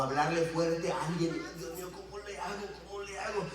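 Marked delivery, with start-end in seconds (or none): 1.6-3.5 anxious pleading, rising in pitch; fretful self-questioning that climbs as it goes; fearful. Acted. Pastor dreading confronting a member, fearful. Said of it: "el temor de confrontar a alguien".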